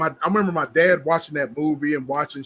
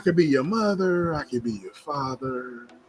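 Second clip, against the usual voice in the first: put-on smooth pimp talk; 3 dB quieter than usual. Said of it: "He was smooth".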